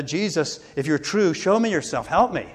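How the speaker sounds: a desperate prayer voiced lightly, not a full shout; half-voiced cry for help; retold cry to Jesus. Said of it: "he cried out oddly to Jesus".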